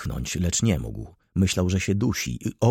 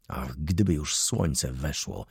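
soft, slow, lower murmur; whisper; 5 semitones lower, 6 dB quieter than usual. A narrator's reading. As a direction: sigh it out softly. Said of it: "szepnął Wokulski". (cichy, wolny szept)

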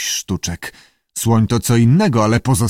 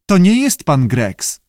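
slow, high salamander voice; lightly squawked creature line; squawky voice; 6 semitones higher than usual. A narrator's reading. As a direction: squawk it slowly, pitched up. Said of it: "powiedział skrzykliwy głos".

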